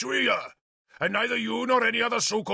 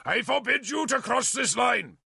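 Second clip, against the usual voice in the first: bar the way with your voice; shouting; 11 semitones higher than usual. A narrator's reading. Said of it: "he shouted".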